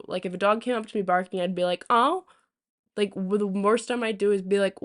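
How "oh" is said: high surprised oh. Retold or imitated. Reacting to barking dog.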